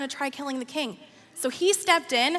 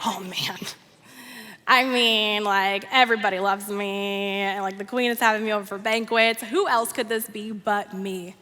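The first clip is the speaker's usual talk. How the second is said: smug boasting; 3 semitones lower than usual. Acted. Boastful Haman answers the king.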